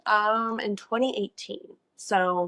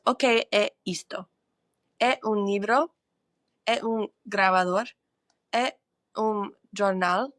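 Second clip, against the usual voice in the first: careful textbook reading. Shown as a demonstration. Learner reads her textbook drill aloud to viewers, careful and rising. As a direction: sound out each Portuguese question carefully. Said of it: "read some of the words".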